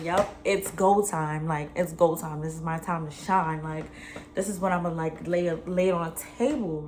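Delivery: lightly acted self-hyping; inner pep talk. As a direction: psych yourself up for the big moment. Acted inner pep talk before confronting him.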